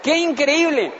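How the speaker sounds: dawning horror played for laughs; mock disbelief. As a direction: burst out laughing at your own foolishness. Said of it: "yo dije".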